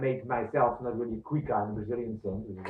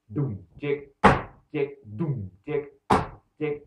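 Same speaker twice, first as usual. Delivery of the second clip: imitating bass drum and guitar; 4 semitones higher, 6 dB louder, slower than usual. Shown as a demonstration. Teacher mimicking rockers reggae beat, doom and ticks. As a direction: voice the kick and guitar pattern. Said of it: "bass drum in some types of reggae on the one".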